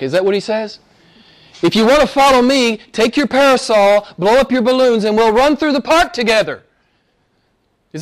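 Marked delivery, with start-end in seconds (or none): 1.6-6.6 mock breezy invitation. Mocking a soft, cheerful Jesus.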